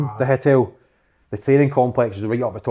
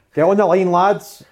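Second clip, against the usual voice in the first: raised, louder training-ground order; imitated coach's call-out; 8 semitones higher, 5 dB louder, slower than usual. Coach to players at pre-season training, calling out. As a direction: call it out high and loud to the squad.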